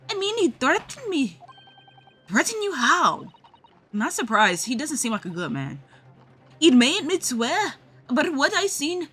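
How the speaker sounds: put-on street girl voice. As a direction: snap back like a cornered street kid.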